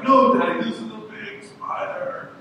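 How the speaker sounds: high-pitched pleading, loud at first; insistent scared kids. Retold or imitated. Boys warn their unconcerned dad about the spider, mock alarm. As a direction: imitate children insisting to Dad. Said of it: "they're freaking out".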